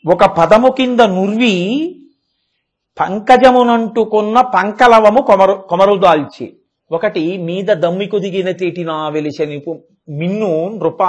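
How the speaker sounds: measured, drawn-out poem recital; sing-song Telugu verse; slow verse recitation. Acted. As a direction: chant the Telugu padyam slowly and evenly.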